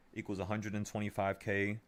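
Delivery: talking through a yawn. Real, not acted. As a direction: say it mid-yawn. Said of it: "Sorry, I'm yawning".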